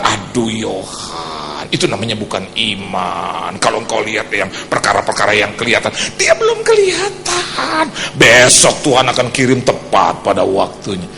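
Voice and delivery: low, unhurried pious mother; calm rebuking mother. Retold or imitated. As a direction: settle him down like his old mother. Mother gently rebukes her son.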